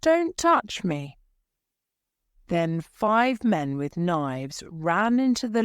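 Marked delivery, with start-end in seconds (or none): 0.0-1.2 threatening order, a knife in hand; angry. Acted. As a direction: snap him back with a raised voice. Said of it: "he said angrily".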